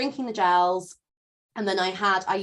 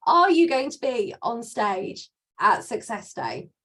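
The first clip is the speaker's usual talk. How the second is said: helium voice; 4 dB louder, slower than usual. Real, not acted. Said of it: "I sound like I swallowed helium".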